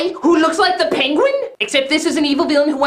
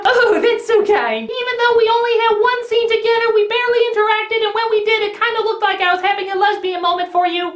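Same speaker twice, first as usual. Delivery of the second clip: high, put-on woman's voice; hammed-up sweetness, pitched up and sustained; gushing new mother; 7 semitones higher than usual. Lucy thanks the girl, in high mock-touched voice.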